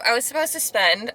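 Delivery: talking through numb swollen lips; numb lips after filler. Real, not acted. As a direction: mouth numb from lip injections. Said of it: "not me trying to talk right now".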